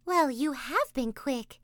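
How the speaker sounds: Taffy. A narrator's reading. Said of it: "said Taffy".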